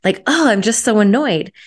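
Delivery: retold exasperated venting; mildly whiny replay of your own griping; venting complaint. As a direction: complain in mock exasperation, leaning on "so". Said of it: "I was just venting and complaining".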